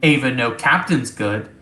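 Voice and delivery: lightly voiced stilted computer; a hint of machine speech, point by point; Ava, robotic ship intelligence. Ava explains her limits to the crew, lightly robotic.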